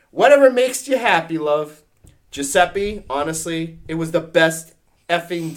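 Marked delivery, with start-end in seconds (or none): 0.1-1.8 mock Scottish, loud and high then dropping; hammed-up Scottish accent, falling on the last word; put-on Scottish accent. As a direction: concede it like a big-voiced Scot.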